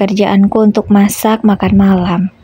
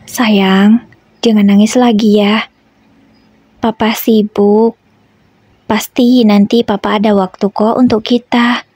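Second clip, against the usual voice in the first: gentle comforting. Acted. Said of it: "ucapku dengan lembut".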